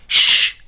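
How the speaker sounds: urgent hushing hiss; sharp loud shush. A narrator's reading. Mother hushes her child with a loud shush. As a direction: hush the child at once. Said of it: "she said".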